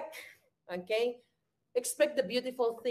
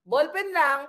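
laughing taunt; 4 semitones higher, 5 dB louder, slower than usual. Real, not acted. Laughs while repeating the taunt.

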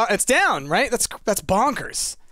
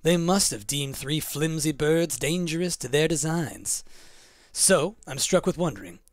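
haughty, poetic creature, lightly voiced; measured and lofty, falling softer at phrase ends; Mothman; 4 semitones lower, 3 dB quieter than usual. Reads Mothman's verse and speech.

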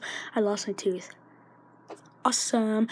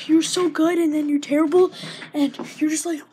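louder exasperated complaint; frustrated; 3 semitones higher, 8 dB louder than usual. Real, not acted. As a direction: vent the frustration.

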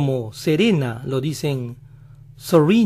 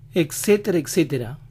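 American accent. Shown as a demonstration. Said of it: "suenan como nuestra R".

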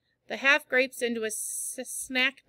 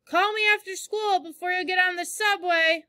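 higher, louder call from a window; 8 semitones higher, 4 dB louder than usual. A narrator's reading. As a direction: call down to the street. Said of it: "Mom yelled at me from the window".

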